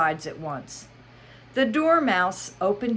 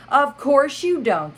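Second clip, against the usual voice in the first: high, scornful Hatter; Mad Hatter voice; 9 semitones higher, 8 dB louder than usual. Acted. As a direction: toss the line off with scorn. Hatter tossing his head.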